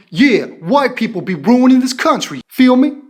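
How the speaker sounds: demonstrated Black American accent; imitation of a Black American speaker's accent; put-on Black American accent. Shown as a demonstration. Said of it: "the voice should have been".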